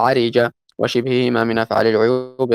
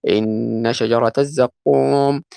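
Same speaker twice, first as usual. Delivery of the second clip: Quran recitation; much slower than usual. Acted. Quotes Quran verse.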